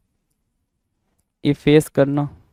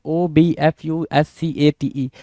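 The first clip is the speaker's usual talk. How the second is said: 1 slow spelling out; slower than usual. Shown as a demonstration. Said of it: "उससे ज़्यादा important उसकी spelling है".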